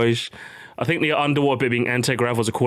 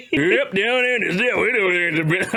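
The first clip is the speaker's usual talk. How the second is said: put-on Southern accent; 5 semitones higher, slower than usual. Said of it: "I can't do the accent".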